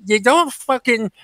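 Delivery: scornful telling-off straight to camera; direct rant. Real, not acted. Vlogger tells off the karaoke woman in a scornful rant. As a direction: scold her like she's right there.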